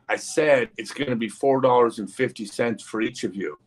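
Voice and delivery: mildly impatient, retold restating of the price; insistent repeat. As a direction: repeat it deliberately, as if they didn't listen.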